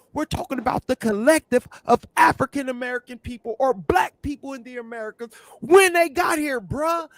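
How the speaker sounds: loud, high, worked-up argument; hammering the point home loudly; heated shout. Real, not acted. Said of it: "You gotta calm down".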